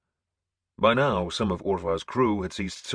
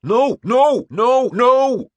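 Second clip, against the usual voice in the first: loud, much higher repeated roar; 11 dB louder, much slower than usual. A narrator's reading. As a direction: bellow it across the deck. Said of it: "a man roaring".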